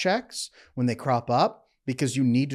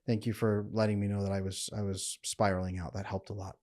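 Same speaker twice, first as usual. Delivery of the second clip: grateful partner; 4 semitones lower, 6 dB quieter than usual. Retold or imitated. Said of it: "Then they come back".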